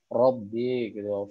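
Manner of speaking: Robbi with a thick, heavy r. Shown as a demonstration. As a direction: say Robbi with a full, dark ro. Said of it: "maka ro-nya menjadi tebal".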